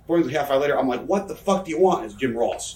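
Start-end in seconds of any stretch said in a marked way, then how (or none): 1.1-2.0 irritated phone answer. Retold or imitated. Retold annoyed answer to early call.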